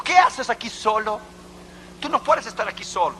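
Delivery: lightly voiced interrogating soldier; imposing Russian soldier. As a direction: challenge him like an officer on patrol. Huge Russian soldier confronts the man.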